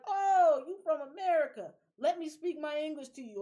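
loud, high eager greeting; mock an overeager English speaker; imitating excited locals.

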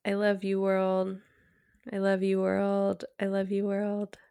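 very soft, inward declaration of love; quiet affirmation from the womb. Shown as a demonstration. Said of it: "And then saying".

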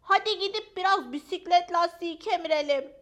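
high, loud, playful invitation; eager dog friend. Acted. Fülfül invites Maya to chew tyres, eager high voice.

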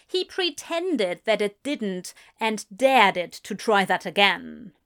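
usual speaking voice

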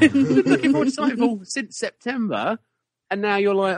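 high, loud, laughing rebuke; laughing scold. Retold or imitated. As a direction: tell yourself off through a laugh. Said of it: "the back of my head went".

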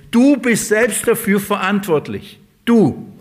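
forceful pulpit emphasis; emphatic preaching. Acted. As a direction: drive it home to the congregation. Preacher hammering responsibility.

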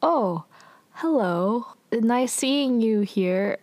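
halting mock-awkward greeting. Suho greeting Sunwoo, mildly awkward. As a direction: imitate an uneasy hello, with gaps between the words. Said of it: "is also pretty awkward".

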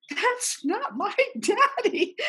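a little boy cries at his dad in costume, mock wail; crying little boy. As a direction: imitate a scared toddler crying, laughing as you tell it. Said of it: "he just burst out crying".

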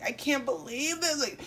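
high, drawn-out mock outrage; hammed-up meltdown over a trifle; overdramatic rich person. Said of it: "They think everything is so dramatic".

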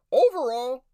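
overall said high, loud and stretched; hyped-up overall. Shown as a demonstration. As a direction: sell the word overall like an announcer.

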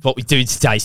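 put-on slow, childlike lisp; talking to a child. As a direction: lisp it out like to a toddler. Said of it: "you're speaking to a child".

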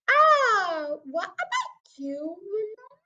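lightly voiced, high, deliberate sergeant; officious police sergeant. Sergeant asks the father to join in, lightly officious. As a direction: turn to him with drawn-out inquiry.

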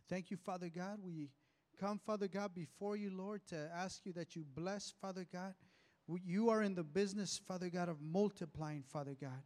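earnest pastor's prayer, steady rhythm. Acted. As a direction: pray aloud over the people. Pastor leads the congregation in prayer.

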